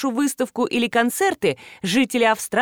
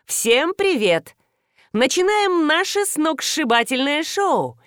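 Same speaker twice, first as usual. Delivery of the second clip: hammed-up TV presenter; showy hostess; 8 semitones higher, slower than usual. A narrator's reading. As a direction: sell the show with glee. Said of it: "закричала стройная женщина".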